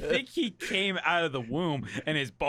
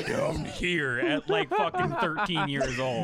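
deep voice. Retold or imitated. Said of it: "His voice was like".

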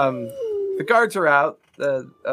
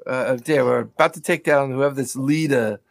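busy dry character. Acted. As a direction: play a busy schemer addressing a dear. Game master plays the same character.

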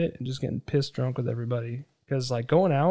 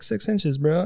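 higher, bragging; cocky joke; 5 semitones higher, 5 dB louder, slower than usual. Retold or imitated. Joking to the women about size, cocky. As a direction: boast with a grin.

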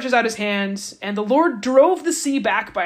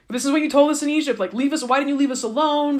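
whining Israelites; 5 semitones higher, 3 dB louder than usual. Retold or imitated. Israelites whine to Moses.

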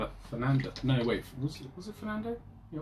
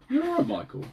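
mock comforting falsetto.

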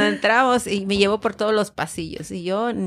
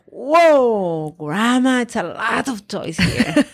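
grandson quote; 3 semitones higher, much slower than usual. Retold or imitated.

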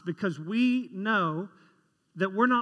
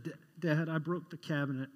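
timid confession; 5 semitones lower, 7 dB quieter than usual. Retold or imitated. Confessing to dad as a kid.

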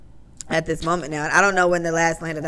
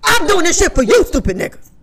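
imitating Joe's snap, high and loud; snapping shout; 11 semitones higher, 8 dB louder than usual. Joe snapping at the hosts, a loud imitated shout. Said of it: "he snaps".

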